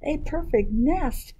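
high-pitched, delighted chicken; chicken character. Acted. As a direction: exclaim it as the hen, high.

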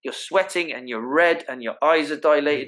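mock irritated mother in labour; labouring woman. Labouring woman telling the panicking visitor to leave, lightly voiced and irritated. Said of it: "the woman might be going".

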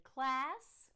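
loud, slow announcement; announcing to class. Acted. Principal introducing Sarah to the class, loudly. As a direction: present the new pupil.

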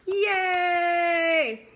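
high, loud cheer. Acted. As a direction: celebrate the bingo like a fan. Cheering a bingo win.

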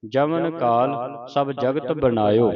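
slow, measured verse recitation; scripture recitation. Shown as a demonstration. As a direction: recite the verse slowly, drawing out line endings. (ਹੌਲੀ-ਹੌਲੀ ਪਾਠ ਉਚਾਰਨ)

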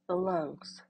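measured meditation voice with long pauses; unhurried, even guidance, leaving room to breathe; guided meditation. Acted. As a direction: guide them gently through noticing anger.

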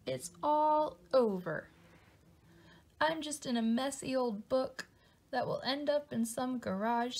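slow, defeated and gloomy; giving up on it all; despairing. Acted. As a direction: Louie gives up on his ruined story. Louie gives up despairing.

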